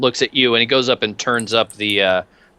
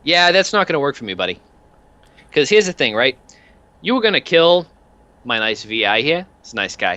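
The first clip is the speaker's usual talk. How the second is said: lightly voiced enforcer, pitched up at each new point; chatty heavy talking down a captain; debt-collector thug; 5 semitones higher than usual. Game master plays Peanuts.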